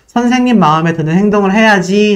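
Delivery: ordinary delivery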